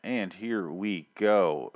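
slow, dragged-out intro line; drawled host sign-off before the clip; drawn-out segue. Acted. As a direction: stretch every word out like a show cue. Show's signature segue cue.

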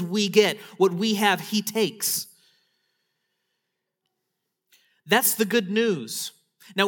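loud, ringing proclamation; full-force preaching. Acted. Preacher announcing the good news to the church, loud proclamation. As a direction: land each half like a verdict.

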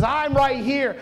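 a touch of smug pride; proud king. Acted. Herod boasting to the wise men, mild smug pride. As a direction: lightly puff up the king's boast. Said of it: "Full of pride".

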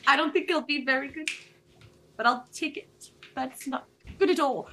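attempted South African accent, uncertain. Shown as a demonstration. Taking over the South African accent, unsure attempt. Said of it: "I can take your South African accent".

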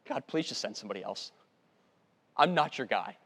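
understated, fed-up begging; acted exasperation. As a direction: plead as if worn out by objecting. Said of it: "Moses just eventually just exasperated".

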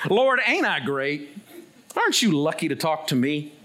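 lightly cocky, self-admiring plea; mock boastful prayer. Preacher parodying a proud man talking to God, mock boastful. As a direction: play someone smugly praying about their own greatness.

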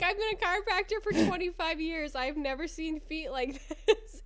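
high-pitched retold disbelief, slowing at the end; astonished chiropractor. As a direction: imitate a baffled professional. Chiropractor's shock continues, retold.

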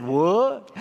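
short, lightly mocked puzzled what; imitating puzzled strangers. Uncle mimicking strangers who don't understand, puzzled. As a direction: play the clueless stranger. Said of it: "exactly like they said".

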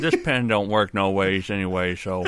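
drawled through a pen held like a cigar; pen in mouth. Real, not acted. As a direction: talk around the pen in your mouth. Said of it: "so I'm talking through it".

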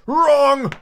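loud, very high, held exclamation; triumphant. A narrator's reading. Humpty catches Alice out, triumphantly. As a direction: pounce on the mistake in triumph. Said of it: "exclaimed triumphantly".

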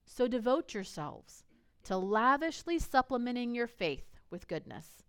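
measured, emphatic Bible reading; scripture reading. Acted. Pastor reading Second Peter to the congregation, emphatic and measured. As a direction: read scripture aloud with weight on key words.

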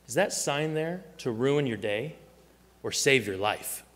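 dead serious. Retold or imitated. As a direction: put it to a friend in all seriousness. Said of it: "looks at him dead serious and he says".

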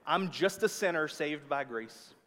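put-on light southern accent slipping out. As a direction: let a touch of southern twang slip in. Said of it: "That was my southern accent coming out".

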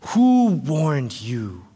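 slow, low, weighty question; grave prophet's challenge; John the Baptist questioning. Acted. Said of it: "That is his question".

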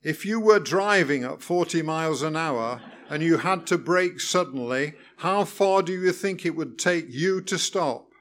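every word stressed, pedantic; emphasis on every word. A narrator's reading. Examiner quizzing learner, stressing every word. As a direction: hammer each word separately. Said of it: "putting unnecessary emphasis on every word".

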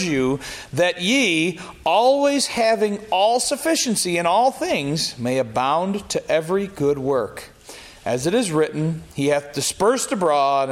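measured King James reading, rising on key phrases; scripture reading. Acted. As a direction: read the verses like a preacher from the pulpit. Reads scripture aloud.

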